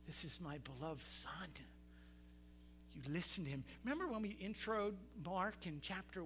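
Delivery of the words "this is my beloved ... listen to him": voice from the cloud. Acted. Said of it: "A voice came out of the cloud".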